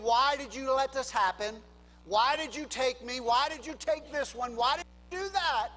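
mock outraged demand building to the last why; angry questioning of God. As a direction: shake your fist at heaven as you ask. Shaking our fist at God.

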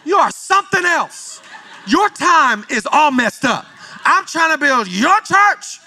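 high, slow, laughing reply from God; laughing mock God. Preacher voicing God amused by his impatience, high and laughing. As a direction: pitch it up and laugh through it.

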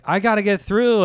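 put-on high, loud insistent old man; pushy old man. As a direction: demand to get past. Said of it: "and he's like".

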